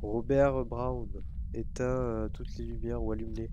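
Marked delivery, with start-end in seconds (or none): 0.0-1.1 loud, drawn-out name call; calling the ghost. Pretend. Player summons the ghost by name, calling out. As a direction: summon the spirit loudly, stretching the name.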